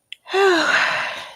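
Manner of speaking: long audible sigh; real sigh. Real, not acted. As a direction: let out a big sigh. Host sighs before going on.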